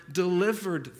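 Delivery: "delivered" set apart and lifted; emphasize delivered. Shown as a demonstration. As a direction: isolate and press "delivered". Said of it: "I want to emphasize the word".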